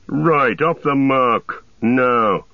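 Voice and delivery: barked order. A narrator's reading. Captain barks orders.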